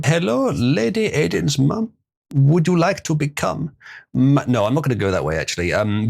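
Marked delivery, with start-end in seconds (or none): 0.0-4.4 slow, higher put-on charmer voice; slowly woo Aiden's mum in a put-on voice. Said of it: "the J F voice".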